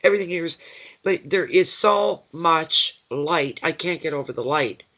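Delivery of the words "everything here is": quick, lightly higher, breezy mock cheer; voicing a joyful spirit. Medium voicing the spirit's delight to the sitter, lightly higher and quick. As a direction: rattle it off like a carefree happy ghost.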